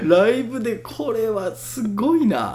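cracking up, words very slow and drawn out. Talking to viewers on a live stream, laughing uncontrollably. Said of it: "めちゃくちゃ笑っちゃうんですけど".

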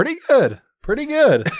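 cracking, jittery, nervous, very high voice. Podcast co-host answers how he's doing at the episode's start, voice cracking. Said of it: "Your voice is cracking".

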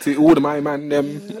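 put-on London accent. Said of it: "I don't know what accent that was".

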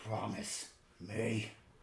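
guttural whisper. Narrating a story, a character demands the listener's promise in a guttural whisper. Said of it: "in this guttural whisper".

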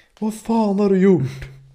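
very high, shrill, loud screaming. Retelling how his mother screamed at him on finding the car in the ditch, retelling a scream. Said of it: "Skrek hon så här".

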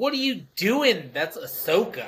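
angry, upset outburst. Recalling own reaction while watching a Star Wars scene, mock-angry outburst.

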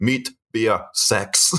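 put-on Scottish Dundee accent. Retelling a man's reply at school, in a thick Dundee accent. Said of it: "thick Dundee accent, which I won't be able to do, but I'll try".

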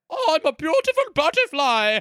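put-on very high-pitched caterpillar voice with German accent. Asked to do the German caterpillar from Bug's Life, in Heimlich's voice. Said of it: "Can you do like the German caterpillar from Bug's Life?".

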